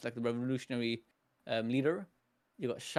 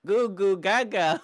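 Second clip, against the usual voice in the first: put-on baby talk; 4 semitones higher, 6 dB louder, slower than usual. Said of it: "No baby actually talks like that".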